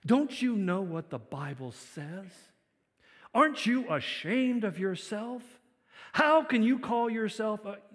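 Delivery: loud, drawn-out mock reproach; scolding. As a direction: scold them as a shaming churchgoer. Mimics scolding of others' misbehavior.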